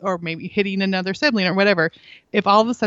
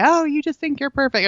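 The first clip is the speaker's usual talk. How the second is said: put-on higher, taunting teen voice; mocking child's taunt; 7 semitones higher than usual. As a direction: taunt like a provoking kid. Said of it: "they would say".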